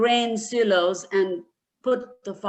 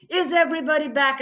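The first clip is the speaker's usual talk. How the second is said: roaring; 4 semitones higher, 3 dB louder, much faster than usual. Acted. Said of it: "like a lion roaring".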